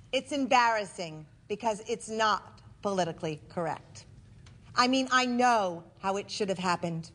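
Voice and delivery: deliberate stage delivery with measured pauses; comic storytelling to a live audience; theatrical monologue. Acted. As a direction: punch key words, then pause for the laugh.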